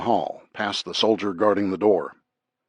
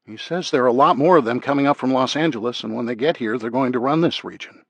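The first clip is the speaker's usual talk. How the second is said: a hint of Maria, pitched higher; lightly voiced translator; 4 semitones higher than usual. Interpreter relaying prisoner's threat by earpiece, lightly voiced. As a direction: relay it as the interpreter, slightly lifted.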